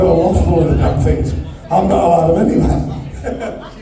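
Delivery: amused grumble. Real, not acted. Auctioneer joking to the bidders about home, amused. Joking aside, laughs straight after.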